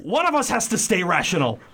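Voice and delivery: fast, high line through a laugh; laughing Ernest. Acted. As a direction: rush it while cracking up. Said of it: "read for Ernest".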